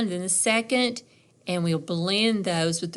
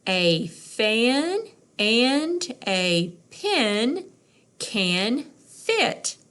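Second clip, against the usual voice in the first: more fluent; 3 semitones higher, much slower than usual. Shown as a demonstration. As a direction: read it as one smooth phrase. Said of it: "let's try to do it more fluent".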